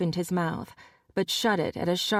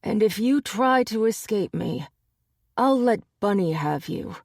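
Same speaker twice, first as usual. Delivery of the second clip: raised, menacing warning; a hint of menace; 4 semitones higher, 4 dB louder than usual. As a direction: dare him to run. Final threat to Gary.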